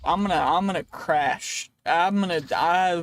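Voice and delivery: playful alarm. Real, not acted. Gamer about to crash in the game, playful alarm. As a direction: call out your impending crash.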